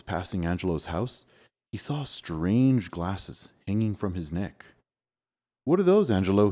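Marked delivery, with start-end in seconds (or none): 5.6-6.5 shouted. Acted. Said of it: "he shouted".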